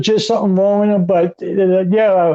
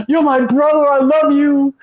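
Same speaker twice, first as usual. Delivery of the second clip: mock tearful plea; 4 semitones higher than usual. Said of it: "with his big baby blue eyes and like".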